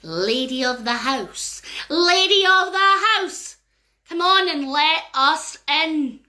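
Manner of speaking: slow drawn-out call at the door; eerie fairy call; fairies calling. Acted. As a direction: coax them, slow and eerie. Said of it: "they shouted through the door".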